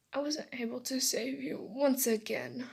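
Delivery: wavering, slightly tearful confession; mildly tearful, voice a little unsteady; crying. Acted. Boy to the friend he failed to save, crying. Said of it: "he cried".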